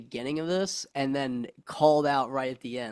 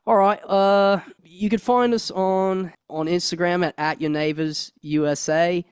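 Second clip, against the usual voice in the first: put-on an amateur British accent that drifts toward Australian; 3 semitones higher, 4 dB louder than usual. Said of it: "In the best British accent you can give us".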